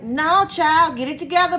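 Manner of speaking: mock stern self-talk, calming down into breathe; self-scolding. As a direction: talk yourself down like a firm auntie. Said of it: "And it's like".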